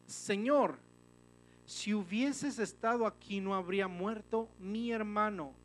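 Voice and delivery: high, loud, slow scripture plea; impassioned plea. Acted. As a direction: cry it out slowly, like María pleading. Reads María's plea at Jesus' feet.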